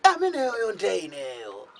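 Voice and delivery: high, loud lunatic reveal; squeaky madman voice. Acted.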